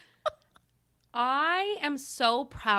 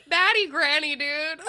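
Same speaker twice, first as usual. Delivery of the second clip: real helpless laughter through the words; laughing hard. Real, not acted. Co-host reacts to granny's second record, laughing hard. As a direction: barely get it out for laughing. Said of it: "I'm laughing so hard".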